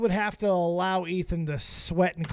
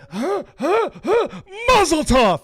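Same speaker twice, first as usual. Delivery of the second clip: Jewish voice; 8 semitones higher, 5 dB louder than usual. Acted. Continues the Jewish voice bit.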